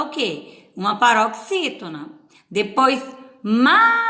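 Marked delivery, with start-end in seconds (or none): 3.4-4.0 "mágica" with MÁ high, loud and stretched; stress on MÁ. Shown as a demonstration. Teacher marking the accented syllable, "mágica" with a long loud MÁ. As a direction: draw out the first syllable of "mágica", then the rest. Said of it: "onde tá a acentuação de mágica".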